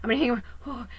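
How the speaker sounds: high, loud, fast imitation of panicking people; hammed-up panic, clinging to the dark; mock panic. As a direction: play the frightened crowd, half-mocking. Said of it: "People are like".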